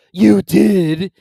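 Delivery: high, loud weepy voice; weepy Mock Turtle. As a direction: wail like a sad creature.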